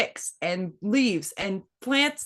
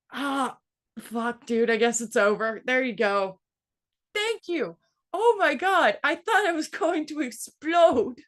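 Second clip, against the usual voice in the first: put-on high, breathless little-boy relief; relieved kid; 5 semitones higher than usual. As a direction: sigh it out like a kid who just made it. Son relieved after bathroom, retold.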